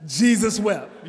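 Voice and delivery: loud, slow, proud "Jesus wept."; slow and loud, like it's a whole chapter; mock deadpan recital. Churchgoer who doesn't know the word quoting the shortest verse, loud slow mock pride. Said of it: "you know they don't really know the word, and they say what?".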